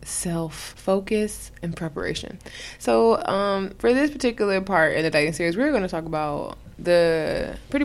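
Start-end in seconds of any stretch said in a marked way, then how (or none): 0.0-2.4 slow drawn-out voice. Acted. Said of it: "Why are you talking like that?".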